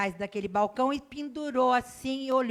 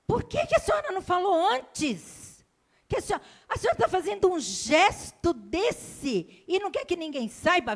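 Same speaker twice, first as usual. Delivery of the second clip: much higher and louder, outraged clerk; indignant shout; 8 semitones higher, 4 dB louder than usual. Retold or imitated. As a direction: exclaim it like an upset young man who just understood. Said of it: "Ele deu um grito".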